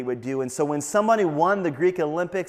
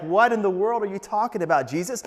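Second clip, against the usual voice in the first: higher, louder incredulous protest; acted astonishment, pitched up; stunned disbelief; 6 semitones higher, 4 dB louder than usual. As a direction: blurt it out, baffled. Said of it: "you're stunned".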